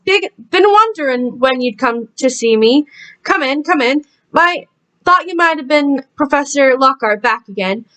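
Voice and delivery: put-on a touch of a Southern American accent. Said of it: "suddenly he get a southern accent".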